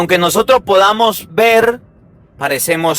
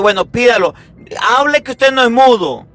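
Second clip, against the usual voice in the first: higher exasperated mock order; impatient father; 4 semitones higher than usual. Father telling his son to order food himself, exasperated. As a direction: snap at the child to speak up. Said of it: "mi papá".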